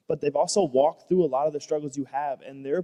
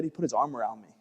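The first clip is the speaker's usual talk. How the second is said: normal talking voice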